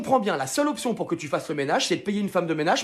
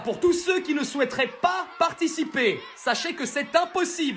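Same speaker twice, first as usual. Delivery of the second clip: raised-pitch, relishing school announcement; gleeful headmaster speech; 5 semitones higher than usual. Acted. Headmaster announcing the yearly school manhunt, gleeful. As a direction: announce the manhunt like good news.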